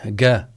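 جا said as a hard "ga"; hard g sound. Shown as a demonstration. Teacher isolates the wrong sound, hard ga. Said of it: "يلفظها".

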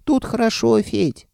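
very high squeaky creature voice; squeaky dragon head. A narrator's reading. Left dragon head reporting to its master, squeaking. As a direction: squeak it out cheerfully. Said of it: "пропищала левая голова".

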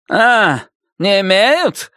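pleased, dropping the shriek. A narrator's reading. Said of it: "проговорил он двумя тонами ниже".

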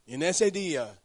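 ordinary delivery

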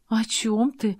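frightened. A narrator's reading. Girl startled by Robert's question, frightened. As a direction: caught off guard and scared. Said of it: "испуганно поинтересовалась".

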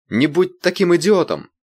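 high, loud, slow furious shout. A narrator's reading. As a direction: yell at the bodyguard. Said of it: "закричала Ирина".

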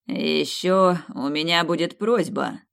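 slow, light smile in the voice; smiling voice. Acted. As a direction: say it with a slight smile. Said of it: "с лёгкой улыбкой в голосе".

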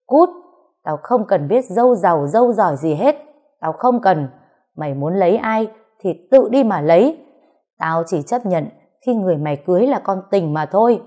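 father yells at son to get out. Acted. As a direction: throw him out at full voice. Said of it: "càng quát to hơn".

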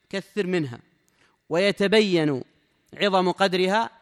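loud, deliberate reading of the text; formal text reading. Acted. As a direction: read the book out to the class. Reads the sheikh's text aloud. (قراءة متن بصوت عالٍ)

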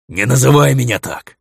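bare teeth and snarl the order; angry wolf snarl. A narrator's reading. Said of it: "оскалился чёрный волк".

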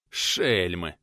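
breathless after the fight; heavy breathing. Acted. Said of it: "Тяжело дыша". (тяжело дыша, ниже)

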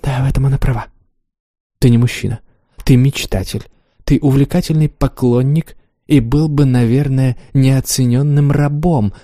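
a lightly voiced teasing lover; Wanda voiced. Wanda's lines in reading.

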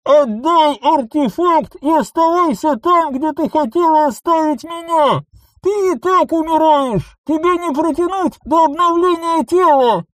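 high, loud, merciless demand; furious demand. A narrator's reading. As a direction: order her to hand it over. Clone demands artifact. (яростное требование)

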